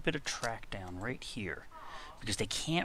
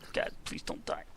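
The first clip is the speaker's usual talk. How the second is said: softer whispered pleading; whispered plea; 3 dB quieter than usual. Real, not acted. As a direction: beg under your breath. Fearing the pet dies.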